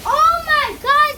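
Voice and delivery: loud, high, drawn-out gasp of wonder; slow excited exclamation; amazed. Real, not acted. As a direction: let it burst out in awe. Kid amazed at trees.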